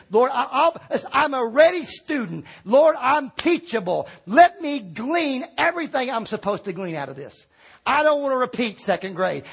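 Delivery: preached prayer, rising to a high shout; preacher calls out a model prayer; fervent prayer. Acted. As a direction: plead with God at full force.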